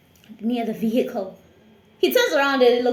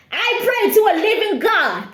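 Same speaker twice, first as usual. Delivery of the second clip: fearful prayer; 8 semitones higher, 6 dB louder than usual. Retold or imitated. Praying in fear.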